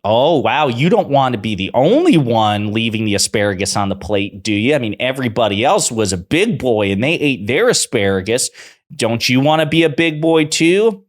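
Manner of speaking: put-on high, loud, sing-song talking-down to a toddler; mock parent coaxing child. Pundits talking to Trump like a child, in a high, loud, coaxing mock voice. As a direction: coax a kid into eating vegetables, mockingly. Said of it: "like a child that they're trying to manipulate".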